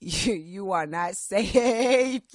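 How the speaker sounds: slow, low sinister welcome; slow creepy villain voice, half joking; mock menacing voice. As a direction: play a horror-movie villain greeting. Mock menacing greeting for Rio.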